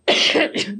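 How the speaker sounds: short dry cough; a single dry cough. Real, not acted. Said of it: "desculpa a tosse".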